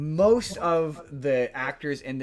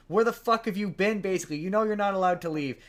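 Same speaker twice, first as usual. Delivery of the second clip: mock angry; 5 semitones higher than usual. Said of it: "is pissed off and is like".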